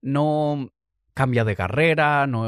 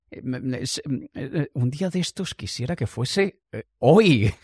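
hesitant stammering. Acted. Passenger left stuck by the pilot's vague promise, hesitant stammer. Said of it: "Y tú te quedas así".

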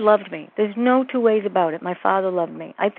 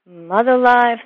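healer's broken-English question; 4 semitones higher, 6 dB louder than usual. Retold or imitated. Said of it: "she said".

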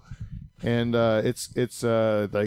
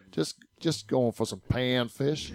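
slow, softer mock southern drawl; 3 dB quieter, slower than usual. Michigan fisherman telling what he's catching, in a slow imitated southern drawl. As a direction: lazily stretch it out in a light Southern accent. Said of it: "It sounded like a southern drawl".

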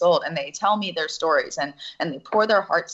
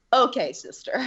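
put-on higher, gentle echo of the girls' soothing voice; girls' reassurance; 6 semitones higher than usual. She echoes the girls to describe the soul, gentle higher voice. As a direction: lightly coo it like the little girls. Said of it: "The soul is always".

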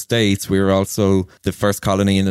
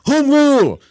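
imitating a man's high, loud cheer, fist raised; excited cheer; 5 dB louder than usual. Burmese man at dinner cheering Ireland, excited high shout. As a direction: shout it out like a rallying cry, much higher.

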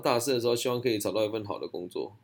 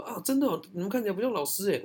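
put-on high, surprised young girl; pitched way up in surprise; girl's surprised voice; 9 semitones higher than usual. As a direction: squeal it like an impressed student. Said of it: "他说".

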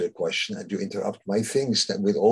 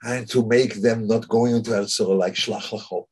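mock tirade. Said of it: "comes with a whole tirade".

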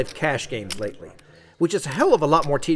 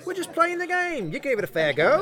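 higher, hammed-up Aussie, soothing the angry player; fake Australian accent; 10 semitones higher than usual. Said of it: "I know my accent sucks".

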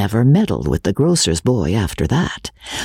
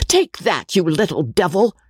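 cried out; 6 semitones higher than usual. A narrator's reading. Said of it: "cried Mister Cuff".

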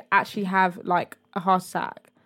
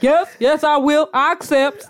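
mock eager acceptance; 6 semitones higher, 5 dB louder than usual. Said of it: "And he's like".

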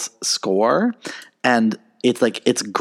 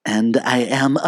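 Regina George delivery. Retold or imitated. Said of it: "the way she says".

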